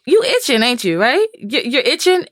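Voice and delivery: mock-coaxing mother's voice; teasing mother. Mother checking on her amped-up kid, teasing.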